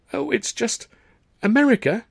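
high, incredulous question; stunned disbelief. Acted. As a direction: gasp out the word in disbelief. Shocked disbelief.

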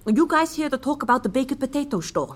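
talking while eating a wrap; words round a bite of food; mouth full. Real, not acted. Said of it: "I'm eating a wrap".

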